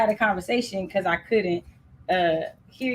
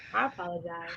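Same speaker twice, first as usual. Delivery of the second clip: much quieter, lower apology; hushed, low-voiced sorry; softly spoken apology; 4 semitones lower, 12 dB quieter, faster than usual. Real, not acted. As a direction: say it small and soft, as requested. Repeats apology softly, as asked.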